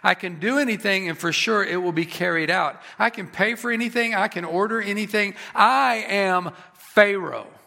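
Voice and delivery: a touch of self-exalting boast; emphatic mock boast of a self-made god; lightly voiced Pharaoh. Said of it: "He saw himself above all".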